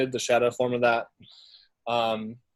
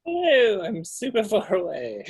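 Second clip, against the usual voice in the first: playful calling out; 8 semitones higher than usual. Pretend. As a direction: call out as if from a distance. Calls out from far away on map.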